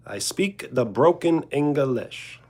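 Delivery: slow mock Italian broken English; Italian English accent. Streamer boasting of broken English in an Italian accent. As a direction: spell it out slowly in an Italian accent. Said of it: "an Italian English accent".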